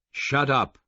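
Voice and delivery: loud, high bark of shut up; sudden loud shout to jolt him. Acted. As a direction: shout it right into his ear. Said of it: "very loudly".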